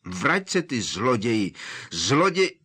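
high, loud furious yell; yelling after him. Acted. Harry yells after the disappearing Mundungus, furious. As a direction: shout after the thief who vanished.

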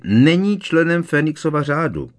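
high, loud indignant protest. A narrator's reading. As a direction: object hotly, voice up high. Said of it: "protestovala paní Weasleyová".

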